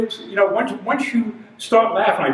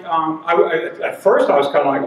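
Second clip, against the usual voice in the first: ordinary delivery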